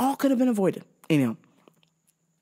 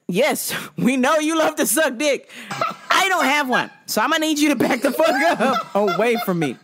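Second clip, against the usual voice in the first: sassy telling-off; 5 semitones higher than usual. Acted. Acted telling-off of coworker.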